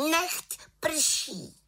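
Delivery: very high little witch voice casting a spell; calling out. A narrator's reading. Little witch commands the cloud to rain, high-pitched call.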